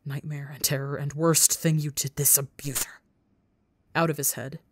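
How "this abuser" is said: breathy frightened whisper; whispered dread. Acted. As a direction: hiss it in fear. Terrified murmur.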